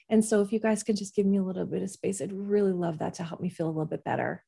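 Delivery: low-key and reasonable; talking feelings and needs. Shown as a demonstration. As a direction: gently ask the kids for some space. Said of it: "That's talking in the language of feelings and needs".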